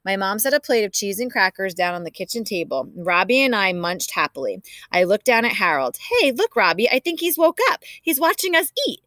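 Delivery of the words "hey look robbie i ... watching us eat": put-on excited kid. Boy excitedly notices hamster awake.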